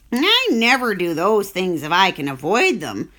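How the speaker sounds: grumpy, sour rat reply; a lightly sour rat refusing. Acted. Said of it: "replied the rat sourly".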